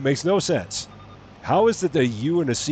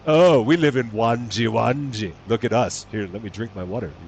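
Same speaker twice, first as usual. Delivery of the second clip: mock posh resident, louder at the start; a hint of snooty town dweller showing off; fancy snob; 3 dB louder than usual. Mocking fancy locals to chat: mild snooty voice. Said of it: "if they're trying to be fancy".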